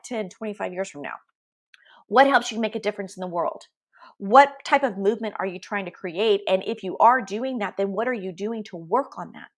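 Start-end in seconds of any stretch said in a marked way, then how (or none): 0.0-3.6 hushed, intimate coaching whisper. Acted. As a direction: lean in and whisper it like a secret. Coach whispers the big questions.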